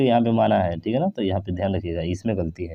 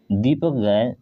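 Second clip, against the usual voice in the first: slow reading. Shown as a demonstration. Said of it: "नहीं, चरत है".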